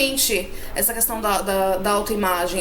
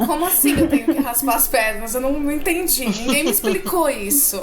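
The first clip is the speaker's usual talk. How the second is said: baffled protest; 3 semitones higher, faster than usual. Retold or imitated. Voices own teenage bafflement, amused.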